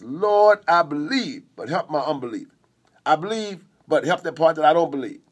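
pleading cry to the Lord; a father's desperate plea. Retold or imitated. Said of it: "But he cries out".

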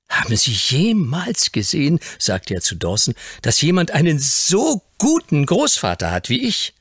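put-on high, glowing child's voice; little lord telling Dawson about his grandfather; proud little boy. A narrator's reading. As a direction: boast innocently about Grandpa.

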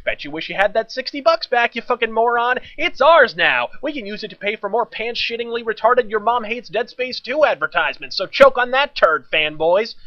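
high-pitched, taunting outburst; mock shrieking. The game's flashing map taunts fanboys, shrieking. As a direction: shriek it like a gloating, attention-hungry pest. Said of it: "repeatedly shrieking the words".

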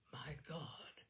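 whispered under the breath; a stunned, hushed mutter. A narrator's reading. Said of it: "muttered Mister Skinner".

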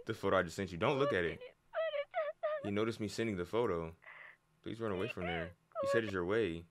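low, soft read-aloud voice; reading game text. Acted. Player reading a character's warning messages, low read-aloud.

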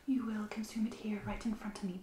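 ordinary delivery

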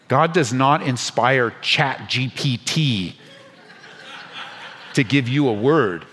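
laughing disbelief. Real, not acted. Mocking AI sermons, laughing.

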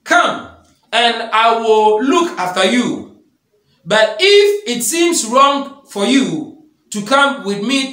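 slow, solemn Bible reading voice; preacher reading Jeremiah to the congregation, slow and solemn; scripture reading. Acted. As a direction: read the passage slowly, with weight on each clause. Reads Jeremiah 40 aloud.

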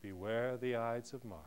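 low, soft warning; soothsayer's warning. Acted. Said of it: "it is the soothsayer who states".

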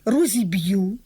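"розіб'ю" stressed on the final syllable; stress on last syllable. Shown as a demonstration. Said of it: "У формах майбутнього часу тільки".

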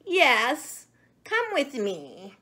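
wheezy monkey voice. A narrator's reading. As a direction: wheeze the words out. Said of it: "wheezed the monkey".

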